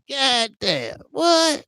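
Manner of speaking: high shocked "God damn, what?". Retold or imitated. Streamer recalling walking in on the scene, shocked. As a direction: blurt it out in disbelief. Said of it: "I'm like".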